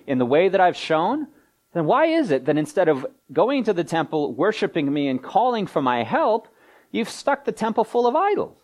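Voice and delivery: sarcastic challenge, pitched high; mock-incredulous retort, rising toward an accusation; God. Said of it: "God's responding to them and saying".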